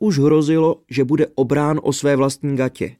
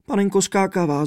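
sobbing princess; 8 semitones higher than usual. A narrator's reading. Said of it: "zavzlikla princezna".

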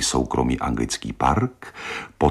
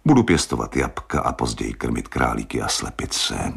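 dreamy. Acted.

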